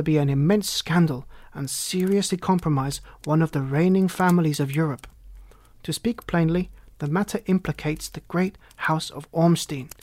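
lightly voiced solemn nobleman; a hint of a pompous Count; grave Bohemian Count. Count binding two listeners to secrecy, lightly voiced as grave.

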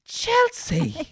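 very high, scandalised name-call; mock shock. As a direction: feign horror to shift the blame. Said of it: "he's nearly shocked that he's just farted".

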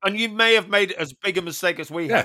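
talking while eating; words around a bite of protein bar; mouth full. Real, not acted. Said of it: "Sorry, I'm still eating".

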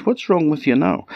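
high, light mouse princess voice; a small, curious mouse voice; cartoon princess. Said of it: "she said".

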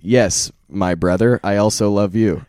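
put-on loud, emphatic, hammy American accent; badly imitated American accent, projected; mock American accent. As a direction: declaim it in an exaggerated American accent. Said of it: "careful with those spot-on impressions".

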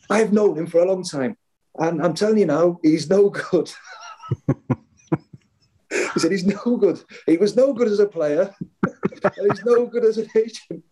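high, scornful imitation of the gaffer; mock manager. Manager telling player his agent is useless, scornful. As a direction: lay into the agent, hammed up.

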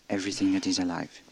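ordinary talk, nothing marked

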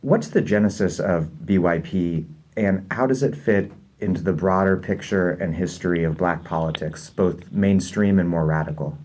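echoey boxed-in room sound; like recording from a bunker; inside concrete bunker. Real, not acted. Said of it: "it sounds a little like he is recording from a bunker somewhere".

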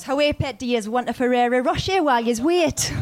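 put-on a light Geordie accent, laughing through it; quoting Geordie Shore in a Geordie lilt. Co-host shows her Geordie party-bus line, in a Geordie accent. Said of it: "the ones I can use that I learned from Geordie Shore".

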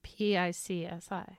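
spelt out in a slow whisper. Real, not acted. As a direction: whisper each letter slowly. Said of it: "Not P I X I E".

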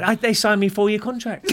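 high, loud mock-foreign accent; Borat. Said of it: "he talked like Borat".

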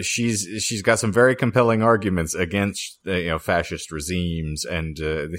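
fighting back laughter, words slowing; trying to keep a straight face; stifled giggles. Real, not acted. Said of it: "I'm trying to keep a straight face and I can't speak".

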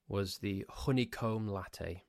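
ordinary delivery

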